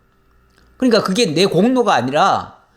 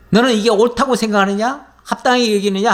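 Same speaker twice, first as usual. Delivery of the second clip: pressing demand; 3 semitones higher, faster than usual. Acted. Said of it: "다그치듯이, 어, 따져 묻는".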